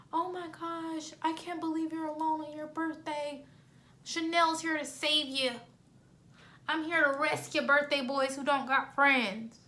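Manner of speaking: high, soft, slow cooing; put-on sweet sympathy. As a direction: coo like a rescuer to a lonely boy. Sweet-talking a lonely guy, retold.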